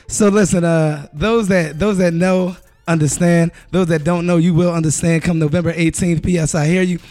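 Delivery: hype introduction. Acted. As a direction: build up the name like an announcer. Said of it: "ain't nobody else get no introduction like that".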